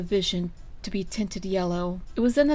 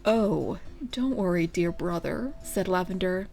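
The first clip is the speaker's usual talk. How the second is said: slimy. Acted. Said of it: "his voice dripping with slime".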